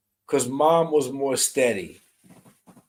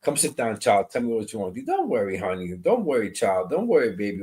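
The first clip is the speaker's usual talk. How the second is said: nurturing grandma; 2 semitones lower than usual. Retold or imitated. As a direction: soothe like a grandmother. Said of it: "she was more the nurturing".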